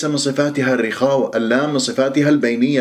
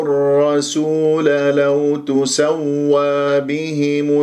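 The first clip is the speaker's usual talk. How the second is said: slow, measured tajweed recitation; slow chanted recitation of the verse; Quran recitation; much slower than usual. Acted. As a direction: recite slowly, stretching the long vowels.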